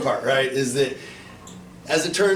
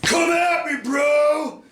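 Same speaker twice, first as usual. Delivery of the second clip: mock shout; 11 semitones higher, much slower than usual. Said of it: "so I guess I should be like".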